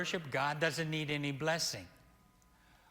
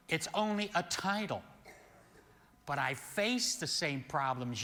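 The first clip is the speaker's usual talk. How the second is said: preaching with force. Acted. Minister preaching with growing force that he is like them. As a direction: drive it home to the congregation.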